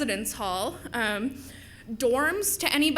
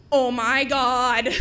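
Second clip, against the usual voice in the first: drawn-out, louder "oh my God"; imitated starstruck gushing; 5 dB louder, much slower than usual. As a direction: gush slowly like an excited fan. Excited fan greets her.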